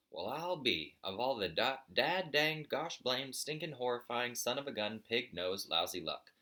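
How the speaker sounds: put-on an old buzzard hanging upside down, spluttering with frustration; sputtering rant. The speaker's mock-cussing rant.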